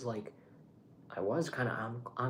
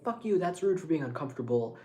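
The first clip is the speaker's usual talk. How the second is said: imagined indignant retort, slightly raised; mildly worked-up mock protest; mock angry; 5 semitones higher, 4 dB louder than usual. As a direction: play at being offended, pitch lifting. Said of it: "She wouldn't get angry".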